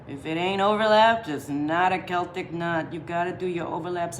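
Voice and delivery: loosely put-on Italian accent. Shown as a demonstration. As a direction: slip into a playful Italian accent. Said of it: "I'm doing an Italian accent".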